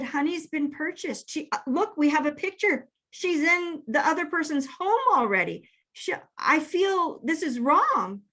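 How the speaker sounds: a mild mock tearful plea; retold bawling. Wife explains the lost puppy to husband, mildly tearful. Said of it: "And I was bawling".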